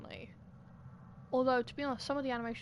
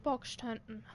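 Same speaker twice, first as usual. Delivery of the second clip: voice cracking. Real, not acted. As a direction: voice cracks on the yell. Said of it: "my voice cracked a bit".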